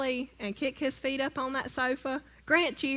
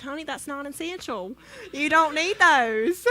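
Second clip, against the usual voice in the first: sarcastic quote; 3 semitones higher than usual. Retold or imitated. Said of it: "I said".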